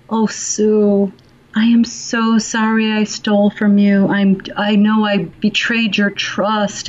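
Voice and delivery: a hint of a fake remorseful apology; mock contrite employee. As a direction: play the thief begging forgiveness, half-mocking. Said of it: "they're not gonna say".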